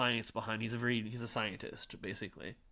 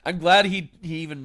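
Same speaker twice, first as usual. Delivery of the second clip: laughing; 8 semitones higher, 12 dB louder than usual. Real, not acted. Laughing at the coincidence.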